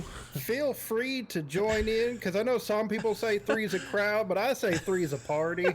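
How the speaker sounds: southern Anatoly voice. Pretend. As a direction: drag it out, mock seductive southern. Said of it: "likes this kind of accent".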